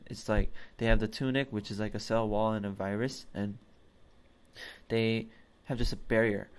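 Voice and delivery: blocked nose, stuffy and nasal. Real, not acted. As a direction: talk through a stuffed-up nose. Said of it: "Sorry for the nasal voice".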